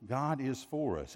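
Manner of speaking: "for us" given the emphasis; stress on FOR US. Shown as a demonstration. Preacher shows congregation where emphasis falls, stress on "for us". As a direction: lean on the words "for us". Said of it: "put the emphasis on for us".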